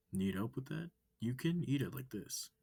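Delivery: high, loud, eager wolf voice; bright curious alien asking questions. Acted. Amicus questioning the human, high and eager.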